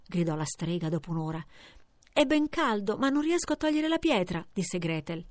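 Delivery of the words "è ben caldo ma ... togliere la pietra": put-on higher, timid child's voice; little girl voice. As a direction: sound small and wary. Little Gretel answers the witch.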